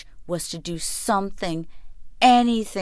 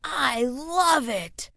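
slow, high, teasing brother; smug boy voice; 7 semitones higher, much slower than usual. A narrator's reading. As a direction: drawl it out smugly. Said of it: "he announced".

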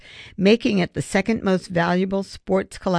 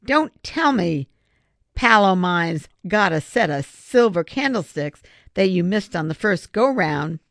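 suspicious; 3 semitones higher than usual. Acted. Retired miner to the actor who fooled him, mildly suspicious. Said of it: "eyed him suspiciously".

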